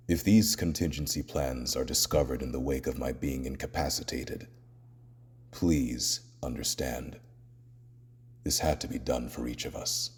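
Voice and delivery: low, hushed and grave; solemn apology. Acted. Batman asking teammates to understand his plans, solemn and subdued.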